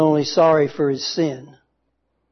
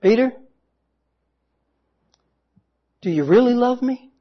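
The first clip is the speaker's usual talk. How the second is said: pleading question; 7 semitones higher, faster than usual. Acted. Jesus asks again.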